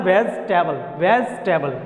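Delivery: "वेजिटेबल" as vez-te-bal, no "ee" after the z; "वेजिटेबल" with the middle vowel dropped; corrected pronunciation. Shown as a demonstration. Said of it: "direct बोलना है".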